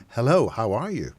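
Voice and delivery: a light, harmless hello set against the menace; friendly greeting. Shown as a demonstration. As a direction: say it breezily, as if nothing's wrong. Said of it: "than just saying".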